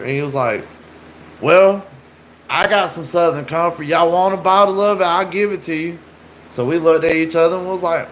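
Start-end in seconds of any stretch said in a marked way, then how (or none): 1.4-6.0 higher-pitched mock friendly offer; retold sales pitch, pitched up; imitated coaxing stranger. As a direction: lightly voice a stranger luring someone with a drink.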